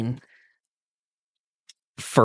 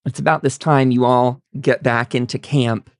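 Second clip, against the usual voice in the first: ordinary delivery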